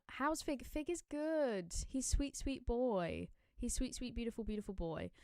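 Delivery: soft, slow, fond cooing; doting. Real, not acted. Answering a viewer about Fig, softly doting.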